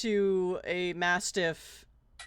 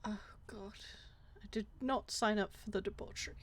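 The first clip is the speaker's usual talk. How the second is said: appalled whisper; 12 dB quieter than usual. Real, not acted. Appalled aside after gross detail.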